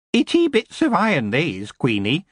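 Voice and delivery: cheeky goblin. A narrator's reading. Goblin prisoner cheeking the queen, cocky goblin voice. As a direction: grin while you talk back. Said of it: "his eyes hardening".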